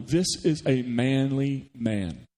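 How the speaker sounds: drawn out very slowly, tongue in cheek; slow, mock-solemn emphasis. Real, not acted. Preacher joking to his congregation about tough Esau, slow mock-solemn.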